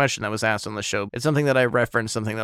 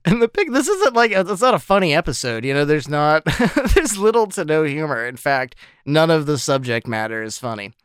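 high, loud, giggling speech; laughing while talking; 5 semitones higher, 6 dB louder than usual. Real, not acted. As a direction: insist seriously while cracking up. Laughing while insisting not funny.

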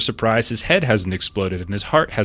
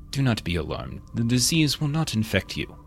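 muffled voice; 5 dB quieter than usual. Acted. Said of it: "again, muffled voice".

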